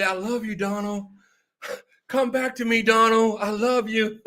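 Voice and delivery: mock pleading. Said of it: "getting on bended knees and say".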